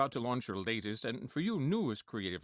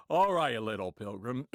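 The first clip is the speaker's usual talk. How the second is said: John Wayne impression; 3 semitones lower than usual. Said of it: "John Wayne was".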